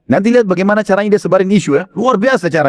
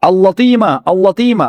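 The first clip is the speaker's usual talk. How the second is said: mildly raised mock alarm call; seruan teriak tiruan; 3 semitones higher, slower than usual. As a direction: imitate a man crying out a warning. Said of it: "Situ dia mulai teriak". (tiruan seruan tanda bahaya)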